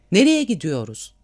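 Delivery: shouting. A narrator's reading. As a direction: call out to the nearest man, restrained. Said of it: "diye bağırdı". (hafifçe bağırarak sorma)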